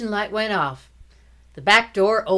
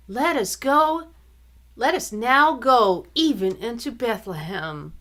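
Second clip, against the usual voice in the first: gentle recital; 5 semitones higher, 4 dB louder than usual. Acted. Sister demonstrating the line.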